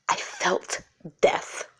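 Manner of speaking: very slow, voiceless near-whisper; shaken hush. Real, not acted. Mother reliving her daughter's near fall, shaken whisper. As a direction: barely get the words out, softly and slowly.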